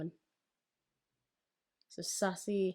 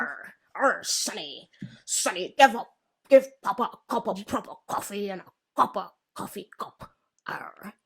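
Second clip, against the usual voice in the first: put-on pirate accent. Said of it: "the accent is a pirate accent".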